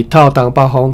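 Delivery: ordinary delivery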